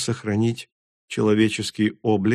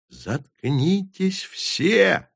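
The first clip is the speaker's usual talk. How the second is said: крик; 9 semitones higher, much slower than usual. A narrator's reading. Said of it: "заорала Тури".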